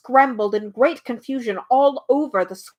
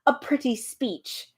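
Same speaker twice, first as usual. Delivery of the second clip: a mild sneer, slow and softer, spelling it out; 3 dB quieter than usual. Acted. Bee mocks the humbug's speech, mild slow sneer. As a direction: drip a touch of scorn, slowly. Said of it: "sneered the bee".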